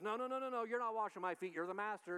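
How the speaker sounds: a hint of Peter refusing, alarmed; upset Simon. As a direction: disciple pushing back as his feet are washed. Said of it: "Simon gets all upset and says".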